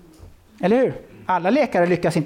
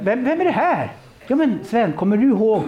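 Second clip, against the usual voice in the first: excited; 5 semitones higher than usual. Retold or imitated. Retold excited men at conference.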